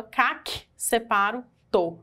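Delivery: "cac" and "to" set apart as syllables; syllables separated. Shown as a demonstration. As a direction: break it up, "cac", then "to". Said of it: "eu separo a sílaba".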